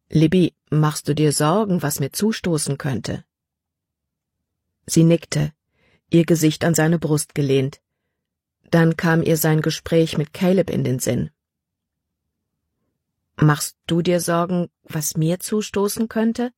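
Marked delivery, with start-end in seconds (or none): 0.1-3.2 a hint of a gentle father, lightly voiced; father asking gently. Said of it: "Dann fragte er". 13.4-16.5 put-on girl asking back. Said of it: "fragte sie".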